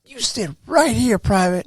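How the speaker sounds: high, slow imitation of a command; ordering drill sergeant. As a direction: order the recruit to the spot.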